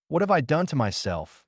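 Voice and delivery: a scientist crying out to his wife in despair; anguished cry. A narrator's reading. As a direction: cry out in dismay at your own risk. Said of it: "he cried to his wife".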